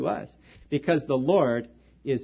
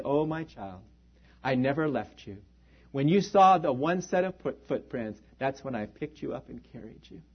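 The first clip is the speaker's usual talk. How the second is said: soft, lower, gentle reassurance; tender Lord; 4 semitones lower, 4 dB quieter than usual. Retold or imitated. The Lord answers the troubled man, soft and reassuring. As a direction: comfort him like a loving father, softly. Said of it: "And he said".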